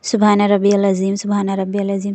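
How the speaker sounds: سبحان ربی العظیم rattled off fast; too fast tasbih. Shown as a demonstration. Teacher shows praying too fast. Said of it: "اتنی speed میں نہیں آپ کو پڑھنا ہے".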